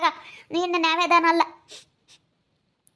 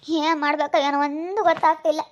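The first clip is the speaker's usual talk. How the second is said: on the edge of crying; tearful. Acted. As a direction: lament helplessly, close to tears. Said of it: "ಯಾಕ್ aunty ಅಳ್ತಾ ಇದೀಯಾ?". (ಅಳು ಬರುವಂತೆ ಗೋಳಾಡುತ್ತಾ)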